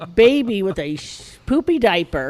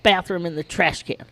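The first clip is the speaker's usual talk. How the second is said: retold exasperated order; 2 semitones lower, faster than usual. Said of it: "So I said".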